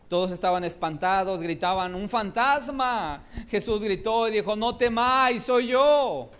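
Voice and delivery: loud, high excited telling; dramatic retelling. Acted. Preacher dramatizing the frightened disciples, loudly. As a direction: cry it out.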